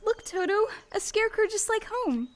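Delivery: pointing it out eagerly; lively, delighted to see something from home; excited little girl calling to her dog; excited discovery. Acted. Dorothy spots a scarecrow.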